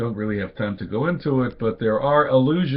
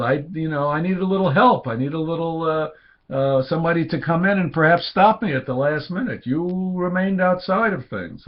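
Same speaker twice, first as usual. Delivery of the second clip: Cain reproaching God; 4 semitones higher than usual. Acted. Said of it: "Cain is saying to God".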